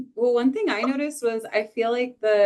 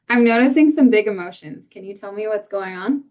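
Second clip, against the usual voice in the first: gently concerned, caring parent; lightly acted caring concern; 6 dB louder than usual. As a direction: read it as a parent checking in kindly. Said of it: "great acting skills".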